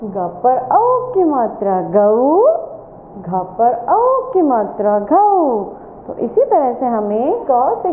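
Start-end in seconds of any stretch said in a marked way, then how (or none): 0.0-5.6 slow chanted classroom drill, each line rising; sing-song recitation. Shown as a demonstration. Teacher chanting the drill slowly for young pupils, sing-song. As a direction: lead the children in a slow rote chant.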